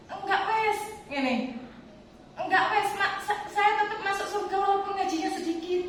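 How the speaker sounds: put-on high, whiny tearful child voice; Bilkis crying. Little daughter protesting to her mother about Quran reading, tearful high whine. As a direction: whimper it like a little girl close to sobbing. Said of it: "Langsung nangis".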